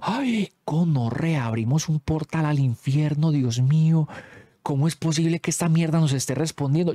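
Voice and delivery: scared panic. Retold or imitated. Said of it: "Yo me asusté".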